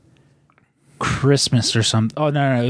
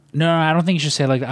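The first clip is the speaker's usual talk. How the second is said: quick, higher-pitched mock objection; fussy mom; 5 semitones higher, much faster than usual. Mom interrupts son typing her letter, imitated as fussy. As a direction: cut in fast as a nitpicking mother.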